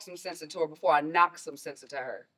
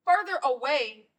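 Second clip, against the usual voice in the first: louder, indignant disbelief; incredulous echo; 4 semitones higher, 5 dB louder than usual. Acted. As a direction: throw the words back at him, louder. Mother repeats louder, incredulous.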